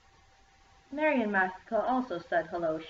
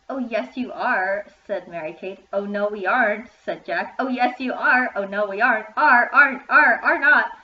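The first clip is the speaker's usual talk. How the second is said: escalating squabble; 3 semitones higher, 9 dB louder than usual. A narrator's reading. Boy and rival girl trading yes-no, building to a shouting squabble. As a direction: bicker back and forth until yelling.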